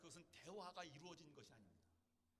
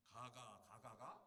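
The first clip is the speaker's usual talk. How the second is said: a lightly voiced Gyeongsang accent, a bit lower; a terse Gyeongsang question; Gyeongsang dialect; 4 semitones lower, much slower than usual. Shown as a demonstration. Pastor joking about the five ga syllables, in a Gyeongsang accent. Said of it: "경상도 말로 하면 가짜만 다섯 개가".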